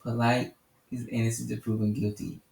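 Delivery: a hammed-up polite version of innocent to proven guilty; mock polite, with violins playing. Shown as a demonstration. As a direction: say it like soft violins are playing under it. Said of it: "You should say it with some violins playing".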